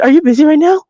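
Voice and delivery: high-pitched imitated pleading; upset young woman. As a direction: ask it in a mimicked young woman's voice. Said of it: "this is how she talks".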